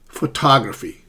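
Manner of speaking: "Photography" as pho-TOG-raphy; middle-syllable stress. Shown as a demonstration. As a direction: push TOG in "Photography", then fall. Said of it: "in the middle syllable".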